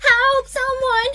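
high, drawn-out call for help; slow, high distress call; cry for help. Acted. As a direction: call out desperately for anyone. Child calling for help.

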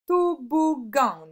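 high, loud "Toboggan" in three beats; syllable by syllable. Shown as a demonstration. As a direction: sound out "Toboggan" slowly, syllable by syllable. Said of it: "le G sur la troisième". (« Toboggan » découpé en trois syllabes appuyées)

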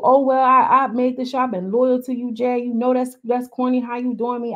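hurt. Retold or imitated. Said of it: "she really has gotten to her emotions".

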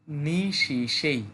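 phone greeting. Retold or imitated. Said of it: "তো ওরা বলে".

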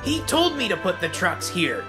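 high-pitched little engine's protest; indignant protest. A narrator's reading. Little engine blames the crane, protesting. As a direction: plead your case indignantly, pitched high.

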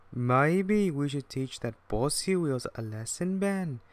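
mischievous twin, lifting high on the name; lightly voiced plotting twin; scheming twin engine. Bill to Ben, plotting a lesson, mischievous.

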